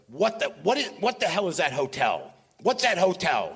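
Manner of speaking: a touch of flustered impatience, imitated; Mel Brooks. Retelling Mel groping for a hotel name, mock exasperation. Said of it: "then Mel Brooks goes".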